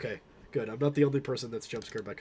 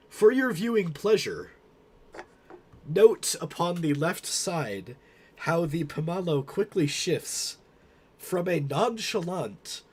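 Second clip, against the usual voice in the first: raised, slow gallery guide presentation; museum tour guide; 4 semitones higher, 3 dB louder than usual. Acted. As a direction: present it like a pompous curator.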